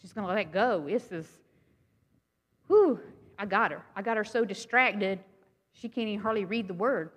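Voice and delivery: a lightly voiced, triumphant tempter; gloating enemy. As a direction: gloat like the devil who's winning. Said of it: "he goes".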